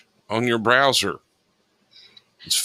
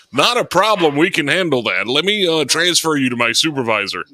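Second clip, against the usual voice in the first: mock call center agent; 3 semitones higher than usual.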